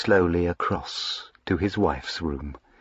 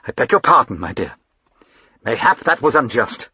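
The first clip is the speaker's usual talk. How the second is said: softened apology; faster than usual. Acted. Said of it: "Carstairs' face softened".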